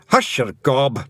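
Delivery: loud, sharp Scots shout; Feegle shout. A narrator's reading. Twiddler shouts at the toad to stop, loud. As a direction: cut the toad off. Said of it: "shouted the helmet twiddler".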